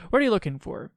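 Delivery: imitating him. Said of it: "that's how he talks".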